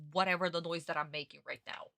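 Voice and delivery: voiceless strained half-whisper. Real, not acted. Hoarse streamer telling chat about their voice, half-whisper. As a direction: push it out between a scream and a whisper. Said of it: "between screaming and whispering".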